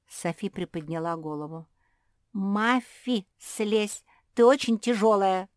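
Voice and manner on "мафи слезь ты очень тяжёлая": loud strained protest from under a heavy body; pinned plea. A narrator's reading. Sophie pinned to the floor begs Mafi, loud and strained. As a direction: shout that she is being crushed.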